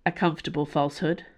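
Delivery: ordinary delivery, nothing marked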